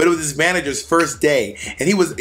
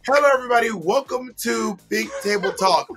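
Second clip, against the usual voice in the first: mock host greeting, a bit higher; talk show host; 6 semitones higher than usual. Mocking Ginger's story as a lightly voiced talk show host. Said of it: "it felt like she was like".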